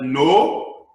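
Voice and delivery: sudden loud shouted no; scream. Retold or imitated. Teacher retelling school talk, loud shouted no. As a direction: shout the word no. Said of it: "by the time you scream like that".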